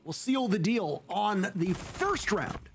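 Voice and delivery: brisk live esports commentary; play-by-play. Real, not acted. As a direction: call the round as it unfolds.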